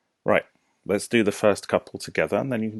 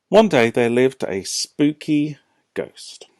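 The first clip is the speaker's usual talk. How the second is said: spooky voice; 6 semitones higher, 10 dB louder, much slower than usual. Shown as a demonstration. Reads spooky story opening.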